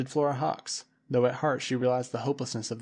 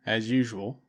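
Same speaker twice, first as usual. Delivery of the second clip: a mild gruff grumble; grudging growl; 3 dB louder than usual. A narrator's reading. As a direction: concede with a grumble. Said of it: "growled Peebles".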